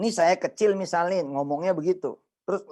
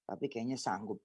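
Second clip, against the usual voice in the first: mock humble; 7 semitones lower, 12 dB quieter than usual. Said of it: "Ngapain juga?".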